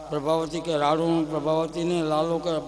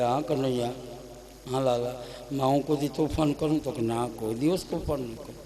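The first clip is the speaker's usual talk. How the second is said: tender; 2 semitones lower than usual. Acted. Mother and son tender talk.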